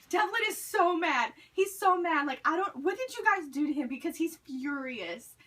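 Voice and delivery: loud, high mock alarm, easing off; imitating someone rushing in alarmed; retold breathless alarm. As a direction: burst in with urgent news, then settle. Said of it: "panting and he was out of breath".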